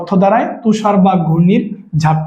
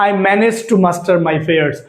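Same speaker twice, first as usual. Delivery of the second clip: slow dictation; much slower than usual. Shown as a demonstration. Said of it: "teacher reads example sentence".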